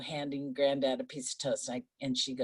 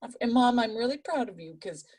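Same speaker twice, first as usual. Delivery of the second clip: daughter's voice; 8 semitones higher than usual. Retold or imitated. Daughter voiced in retold story.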